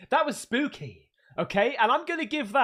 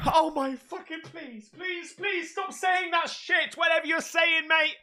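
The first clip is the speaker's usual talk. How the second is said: scared shout; 5 semitones higher than usual. Real, not acted. Scared of ghost clip voice.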